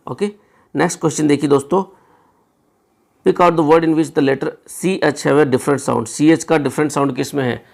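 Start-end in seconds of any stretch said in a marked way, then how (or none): 3.3-6.1 very slow, word by word reading; slow question read; slow dictation. Shown as a demonstration. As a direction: read the question out slowly for students. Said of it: "reading the question aloud slowly".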